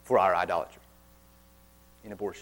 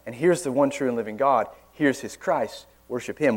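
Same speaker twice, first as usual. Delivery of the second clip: bold preaching; 4 dB louder than usual. Acted. Preacher showing how to confront false worship, boldly. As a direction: open forcefully, then settle into plain proclamation. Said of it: "that kind of boldness in preaching".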